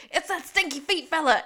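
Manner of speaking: loud, high hammed-up yell; mock shout. Sean flipping a table, shouting in mock alarm. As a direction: yell it like a crazed cowboy. Retelling Sean's outburst in saloon.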